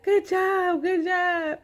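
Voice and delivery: put-on high, loud little-girl praise; little girl cheering. Chunky praising the boy after they both fall, high and loud. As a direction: cheer like a delighted toddler.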